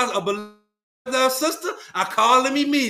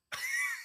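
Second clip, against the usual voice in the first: mimicked laugh; 13 dB quieter than usual. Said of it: "He's laughing".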